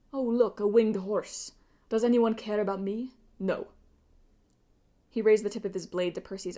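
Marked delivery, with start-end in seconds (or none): 0.1-3.7 mocking the crowd. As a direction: sneer at the fans of his brother. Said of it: "you get used to being forgotten".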